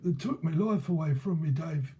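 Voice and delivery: rueful old London gaffer, lightly put on; imitated old geezer. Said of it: "like a proper old geezer".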